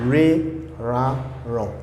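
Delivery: Re, ra, ron sounded out one by one; three ending sounds. Shown as a demonstration. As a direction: spell out Re, ra, ron slowly as a demo. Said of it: "we always have three sounds".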